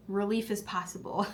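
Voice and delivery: soft, smooth ad-pitch delivery; infomercial voice. Real, not acted. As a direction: sell it like a TV ad. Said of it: "I kind of sound like an infomercial".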